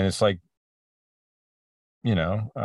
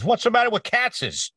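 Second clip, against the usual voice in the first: mock old New York guy, much higher pitched; blunt New Yorker; 3 dB louder than usual. Retelling a New York stranger butting in, higher pitched mock voice. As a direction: toss it off like a brash local stranger. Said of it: "He says".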